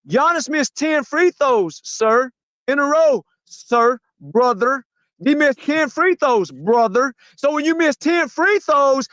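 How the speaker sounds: high, slow, hammering rant; heated rant. Real, not acted. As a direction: pound each point, slow. Rising rant over free throws.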